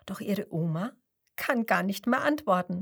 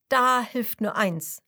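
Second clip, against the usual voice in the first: grandpa voice; 6 dB louder than usual. Acted. Grandpa fox advises, louder.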